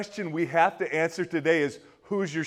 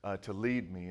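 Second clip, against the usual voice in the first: self-mocking admission; 5 semitones lower, 8 dB quieter than usual. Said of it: "He says".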